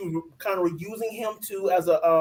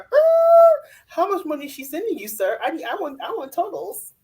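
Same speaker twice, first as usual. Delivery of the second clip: mock demanding; 10 semitones higher, 4 dB louder than usual. Mock-interrogating him via the TV.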